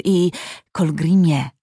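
soothing. Acted. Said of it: "przemawiał Tarjaj uspokajająco".

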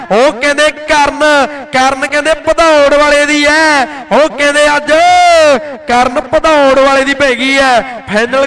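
rapid-fire kabaddi play-by-play; frantic rural sports commentary. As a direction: call the match live, hyped. (ਜੋਸ਼ੀਲੀ kabaddi commentary)

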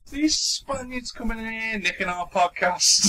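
slow, high, laughing indignation; hammed-up outrage at the intruders; mock outrage.

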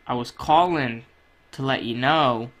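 pretend phone call. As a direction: play calling your buddy to brag.

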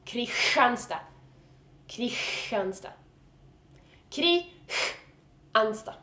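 "Kristianstad" as kri-HHHAN-sta, hissed in the middle; cat-hiss sound. Shown as a demonstration. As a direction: draw out a cat's hiss inside Kristianstad. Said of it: "hissing at someone".

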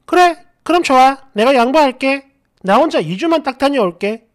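put-on girlfriend's concession, pitched a bit up; mock the girlfriend offering a compromise; imitated girlfriend. Voices girlfriend in retold argument.

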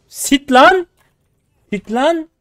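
high yelled sit; shouted command. Real, not acted. Gamer yelling at enemy champion, shrill shout. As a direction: yell it at the enemy like a dog.

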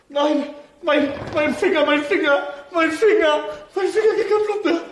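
high, loud, laughing panic; panicked laughing. Real, not acted. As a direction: squeal at the squeezed finger. Finger squeezed by balloon.

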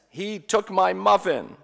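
mock child's wail; upset child. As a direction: whine it like a wronged little brother. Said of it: "but he was still upset".

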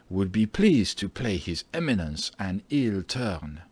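lightly voiced deferential citizen, drawing out phrase ends; a touch of an obsequious townsman; ingratiating landlord. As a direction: plead the case politely as a humble landlord. Landlord figure pleads his case.

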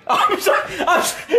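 giggling sorry; laughing apology. Real, not acted. Son apologizing to his dad while laughing.

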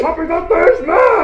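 angry character. Acted. Costumed character storms in, announcing rage.

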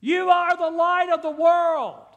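slow, loud, high proclamation; Jesus hollers to the congregation, slow and loud; hollering. Retold or imitated. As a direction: holler it out over the crowd. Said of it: "He hollers out and says this".

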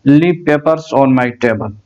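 spoken at half pace, each word drawn out; slow translation. Shown as a demonstration. Teacher slowly translating the Arabic line for students. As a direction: read the translation very slowly for learners. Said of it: "खल्ली औराक मलाना ताविला".

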